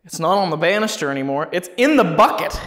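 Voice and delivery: calling out, rising high at the end; yelling across the room. Real, not acted. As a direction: shout the news down the stairs. Calling to partner on another floor.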